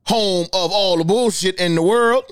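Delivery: upbeat show intro, announcing the episode; podcast host intro. Acted. Host opens his podcast episode to listeners, upbeat announcer. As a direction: greet the listeners like a radio host.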